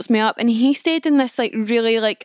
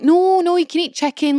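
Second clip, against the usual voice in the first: coworkers insisting; 6 semitones higher than usual. Retold or imitated. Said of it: "everyone was like".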